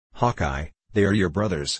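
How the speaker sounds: ordinary delivery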